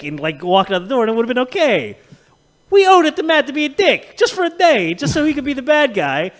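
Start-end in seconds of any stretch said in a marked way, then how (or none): 2.7-6.3 high, loud comic outrage; worked-up, pleading insistence; impassioned ranting. Real, not acted. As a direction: protest it at a high pitch. Comic rant about owing Matt.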